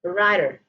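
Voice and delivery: "rider" with a lightly tapped d; American "rider", r sounded at the end; American flap. Shown as a demonstration. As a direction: flick the tongue once in the middle of "rider". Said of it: "American pronunciation of".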